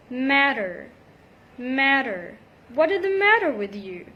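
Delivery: matter with a quick D flap. Shown as a demonstration. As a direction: say matter as "madder". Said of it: "between two vowel sounds".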